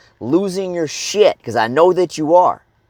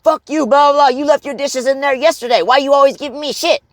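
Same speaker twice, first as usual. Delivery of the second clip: high, heated mock comeback; popping off; 10 semitones higher than usual. Husband firing back at wife over dishes, angry. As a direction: snap back defensively at the nagging wife. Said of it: "Instead of being like".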